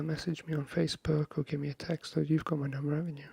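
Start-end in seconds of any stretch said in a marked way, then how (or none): none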